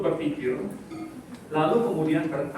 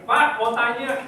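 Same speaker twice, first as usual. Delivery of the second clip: mild, higher mock shout for attention; mock call-out; 5 semitones higher, 4 dB louder, slower than usual. Teacher showing how students may call out, mild mock shout. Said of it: "kalian boleh teriak".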